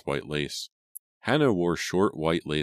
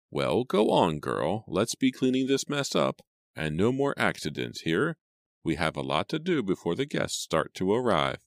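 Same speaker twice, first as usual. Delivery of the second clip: swooping, often high-pitched fussy voice; scolding old housekeeper; bossy housekeeper; 3 semitones higher than usual. Acted. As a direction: order the maid about, pitch see-sawing. Housekeeper bosses the maid.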